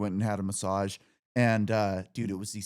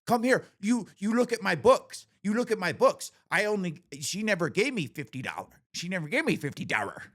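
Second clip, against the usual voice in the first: very high put-on accent, pleading then faster; mock masseuse voice; 9 semitones higher than usual. Masseuse showing her books to a customer, very high mock accent. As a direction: drag in a customer as witness, squealing. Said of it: "She's like".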